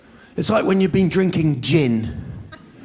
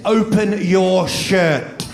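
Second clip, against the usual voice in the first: slow, deliberate command; mock stern midwife order; retold stern order; 4 semitones higher, much slower than usual. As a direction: spell out the order slowly, a touch stern. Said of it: "looked at me and said".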